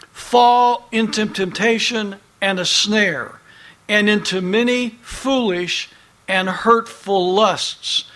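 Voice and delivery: measured, emphatic Bible reading; scripture reading. Acted. Preacher reads a verse to his congregation, emphatic scripture reading. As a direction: read the verse out with weight.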